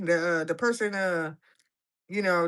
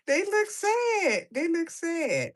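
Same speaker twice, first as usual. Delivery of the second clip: mock sad wail; 9 semitones higher, much slower than usual. Shown as a demonstration. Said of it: "repeated slow and high".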